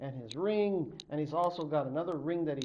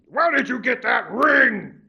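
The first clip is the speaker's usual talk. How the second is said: loud, sharp higher demand; 8 semitones higher, 13 dB louder than usual. Acted. Chief spotting the ring on the boy, loud sharp demand. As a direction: fire the question at him.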